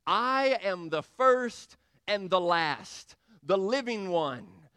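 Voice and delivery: slow, weighty divine pronouncement; solemn voice of the Lord. Acted. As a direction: speak it as the risen Lord, unhurried. Solemn quoting of Jesus.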